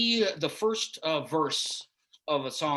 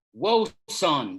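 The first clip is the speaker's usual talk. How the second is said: louder call of whoa, son; shouted warning; 6 dB louder than usual. Acted. Driver warns Harold off the forklift path, loud call. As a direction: call out sharply to stop him.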